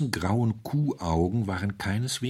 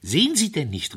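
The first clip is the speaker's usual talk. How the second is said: feverish cry; 9 semitones higher, 4 dB louder than usual. A narrator's reading. The curate repeats his plea to the doctor, higher and feverish. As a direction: repeat pitched higher, pressing harder. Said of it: "rief er fieberhaft".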